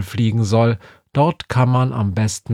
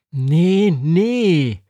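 higher, eager insistence; Befana calling out; 7 semitones higher, much slower than usual. A narrator's reading. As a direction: insist eagerly, the idea is good. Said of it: "ruft Befana".

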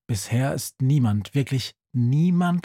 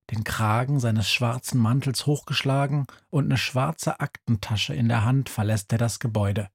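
ordinary talk, nothing marked

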